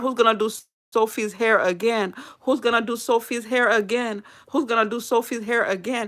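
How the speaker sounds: weeping, tearful crying voice. Retelling what a grieving woman said while holding her: imitating someone crying. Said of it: "And she was crying".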